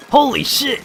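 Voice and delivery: high, loud startled outburst; shocked yelp. Real, not acted. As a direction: jolt out of nowhere at the screen. Sudden shock during the game.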